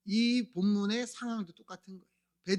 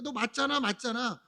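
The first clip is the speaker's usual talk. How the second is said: pressing accusation; 3 semitones higher than usual. Acted. Crowd cornering Peter over knowing Jesus, pressing accusation. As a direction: press the point, lightly hammed-up. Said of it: "사람들이 다 다그치는 거야".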